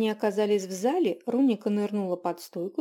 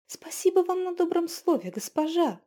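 higher, moved innkeeper thanks her lady; moved, grateful, a little higher; touched murmur; 9 semitones higher than usual. A narrator's reading. Touched innkeeper thanks the witch, higher and moved. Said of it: "пробормотала растроганная трактирщица".

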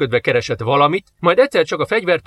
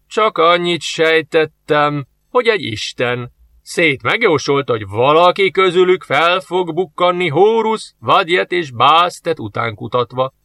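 slow, measured; soldier explaining; 4 semitones higher, slower than usual. Acted. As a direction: explain slowly and carefully.

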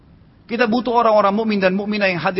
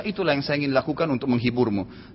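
calm; 4 semitones lower, 5 dB quieter than usual. Retold or imitated. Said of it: "dengan sangat tenang".

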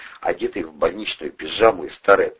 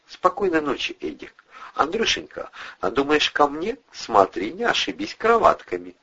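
lightly higher, playful invitation; teasing flirt; 9 semitones higher than usual. A narrator's reading. Kristina flirting with Andrei at bedtime, playful. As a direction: tease him coyly.

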